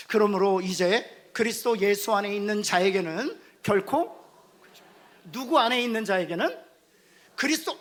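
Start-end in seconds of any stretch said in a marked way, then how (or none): 0.1-4.2 slow, loud unison recitation; congregational reading. Shown as a demonstration. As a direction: lead the reading aloud. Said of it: "같이 한번 읽어볼까요? 시작". (회중과 함께 천천히 크게 낭독)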